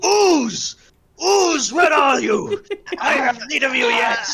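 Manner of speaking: high, loud call into the dark; character calling out. Acted. Adventurer waving a torch to find Ooze, calling out. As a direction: holler out high for someone hidden. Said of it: "I'll go".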